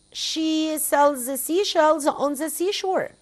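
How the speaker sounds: slowly, each word spaced out; slow careful tongue twister. Shown as a demonstration. Teacher slowly models she sells seashells on the seashore. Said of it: "Tongue twister".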